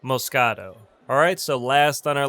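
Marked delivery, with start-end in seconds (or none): 0.0-0.8 Moscato said mo-SKAH-toe; model pronunciation. Shown as a demonstration. Teacher models a wine name, clear pronunciation. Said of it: "It's pronounced".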